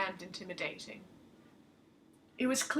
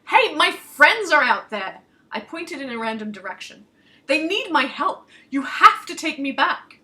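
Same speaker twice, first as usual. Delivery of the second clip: loud, high, desperate pleading; urgent plea; 5 semitones higher, 11 dB louder than usual. Acted. Soldier begging the crone, loud desperate plea. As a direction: beg her to turn around now.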